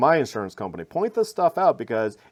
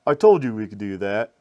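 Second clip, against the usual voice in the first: bad Russian accent; 3 semitones lower than usual. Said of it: "just picture a Russian guy saying".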